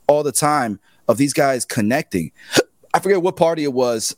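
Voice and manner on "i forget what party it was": hiccups. Real, not acted. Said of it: "Sorry, I got hiccups".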